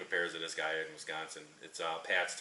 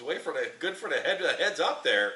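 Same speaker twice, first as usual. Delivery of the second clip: laughing protest; 7 semitones higher, 5 dB louder than usual. Retold or imitated. Guy on speakerphone, laughing.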